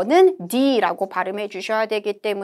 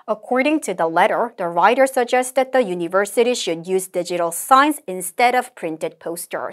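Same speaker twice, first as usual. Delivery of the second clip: slow, deliberate read-aloud with lifted phrase ends; modelled intonation; 2 semitones lower, much slower than usual. Shown as a demonstration. Teacher leads students reading the template aloud, modelled intonation. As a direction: slowly model each phrase, "letter" rising. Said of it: "인토네이션 올려서 말하는 부분들 함께 체크해".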